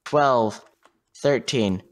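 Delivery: slow steady low count; counting seconds. Real, not acted. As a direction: tick off each number evenly. Counting the head start aloud.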